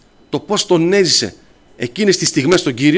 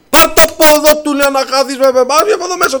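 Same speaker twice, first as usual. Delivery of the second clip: much higher, loud imitated outburst; angry shouting; 11 semitones higher, 3 dB louder than usual. Patient throwing the evangelists out of the ward, angry shouting. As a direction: act out an angry patient yelling someone out. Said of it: "Μόλις φώναξε έτσι".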